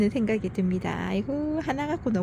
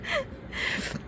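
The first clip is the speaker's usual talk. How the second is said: squealing laugh; 9 dB quieter than usual. Real, not acted. Laughing at her own fuss.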